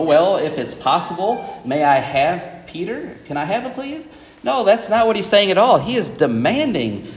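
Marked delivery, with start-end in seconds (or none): 0.0-4.1 mock polite request. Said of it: "It's not like Satan's coming up to Jesus saying".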